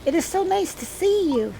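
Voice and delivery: put-on sweet old lady voice. Voicing the old lady Teresa.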